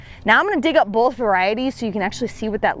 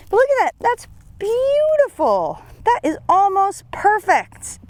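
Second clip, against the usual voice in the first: much higher, slow, thrilled; delighted squeal; 9 semitones higher than usual. Real, not acted. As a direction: gush over it like a treasure. Delighted over a perfect bulb.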